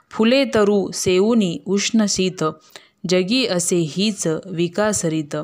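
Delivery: measured, slow verse reading; slow poem recitation. A narrator's reading. Narrator recites a poem about a mother's love, slow and measured. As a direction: recite each line slowly, savoring it.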